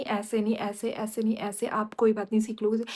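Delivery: a hint of sugary patience toward the maid; imitating sweet coaxing. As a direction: coo it like you're being extra patient. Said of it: "बहुत प्यार-प्यार से, cutie-cutie".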